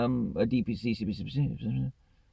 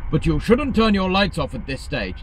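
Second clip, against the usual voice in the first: mock prissy screen; 11 semitones higher, 5 dB louder than usual. Reading the screen's warning.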